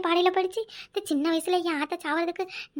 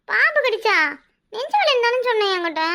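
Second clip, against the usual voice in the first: indignant protest; 4 semitones higher than usual. Acted. Mother protests the snake story.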